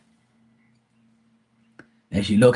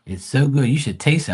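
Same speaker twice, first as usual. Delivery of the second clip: higher, louder, cheerful auntie; auntie's voice; 5 semitones higher, 4 dB louder than usual. Retold or imitated. Auntie urging her niece to taste the feet, cheerful. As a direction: sell the feet like a proud cook. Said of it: "She goes".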